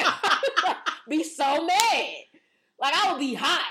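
getting riled up at the thought; worked up, laughing through it. Real, not acted. Imagining being mad at friend.

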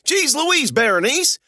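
startled exclamation. A narrator's reading. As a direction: exclaim it, shocked at the creature. Narrator exclaims at the creature's catch.

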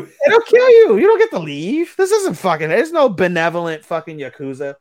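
high, loud exasperated outburst; incredulous shout. Real, not acted. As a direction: shout it in disbelief. Mocking the gentle Yakuza boss.

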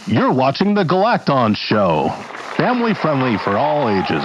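1920s TV announcer, slightly high; bright vintage show intro voice; glamorous old hollywood star. Acted. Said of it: "That was gorgeous".

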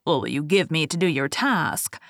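a hint of a scheming dwarf; sly dwarf voice. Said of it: "the dwarf ... said".

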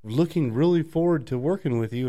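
high, sugary imitation of a coworker; sing-song fake politeness; mock fake-friendly colleague. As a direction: put on a syrupy high voice. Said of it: "But he's like".

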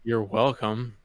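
slow, drawn-out sarcastic thanks reply; sarcastically drawn-out courtesy. Shown as a demonstration. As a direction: stretch it out with mild sarcasm. Echoing it as sarcastic example.

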